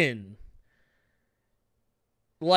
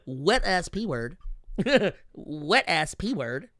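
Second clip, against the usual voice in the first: imitating his voice; slower than usual. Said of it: "that's how he sounds".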